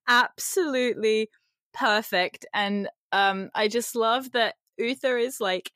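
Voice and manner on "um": normal talking voice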